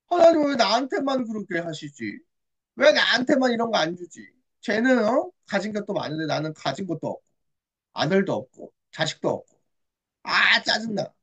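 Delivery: mildly acted grumbling; annoyed. Hannah broods over having no son, annoyed. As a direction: grumble at being left out. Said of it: "한나는 곰곰이 짜증나고 생각을 해봤는데".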